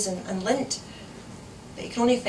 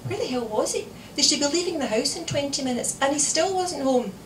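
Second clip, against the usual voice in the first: exasperated; 7 semitones higher than usual. A narrator's reading. Exasperated mother waiting.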